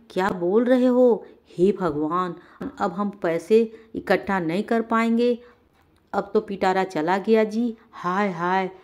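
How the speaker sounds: wailing wife. Acted. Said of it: "रंगीला की पत्नी बोली".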